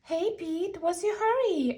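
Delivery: high friendly call; Collie calling. Acted. Collie calls to Pete in the park, high call. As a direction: hail Pete brightly.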